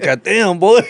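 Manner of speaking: high, laughing through the gruff line; cracking up while imitating him; laughing mock yell. Telling friends how the guy reacted, laughing. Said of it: "He's like".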